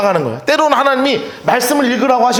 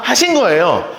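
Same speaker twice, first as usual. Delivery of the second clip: ordinary talk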